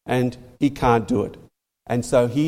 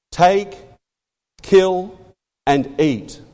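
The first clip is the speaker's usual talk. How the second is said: TAKE, KILL, AND EAT as separate commands with long pauses; measured command, pausing after Take and kill; imperative command; much slower than usual. Retold or imitated. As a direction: land Take and kill firmly, drop on "and eat". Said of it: "It was a command".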